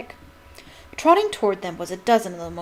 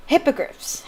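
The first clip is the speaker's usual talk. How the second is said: roaring happily; 6 semitones higher than usual. A narrator's reading. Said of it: "Hagrid roared happily".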